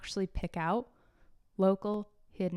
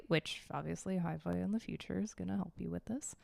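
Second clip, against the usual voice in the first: whispered aside; 5 dB quieter than usual. Real, not acted.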